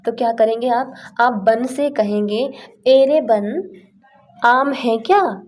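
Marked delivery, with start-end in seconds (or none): 2.9-5.4 raised, loud call into the woods; calling out to the forest. Pretend. Hungry traveller calls out to the forest, raised loud call. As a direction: shout out to the forest asking for mangoes.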